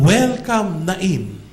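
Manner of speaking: "Welcome" called out high and loud, "Nain" dropping back; grand welcome. Shown as a demonstration. Preacher hailing the town of Nain, loud and excited. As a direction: announce the town like a big banner greeting. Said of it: "doon naman".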